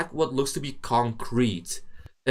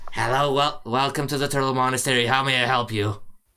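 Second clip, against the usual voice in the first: serene, calm put-on creature voice; 2 semitones higher than usual. Voicing a young kobold greeting travelers at monastery gates: calm kobold voice. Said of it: "and calmly says".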